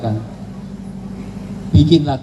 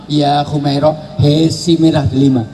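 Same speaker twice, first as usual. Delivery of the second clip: tender call; slower than usual. Retold or imitated. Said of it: "Rasulullah kalau manggil".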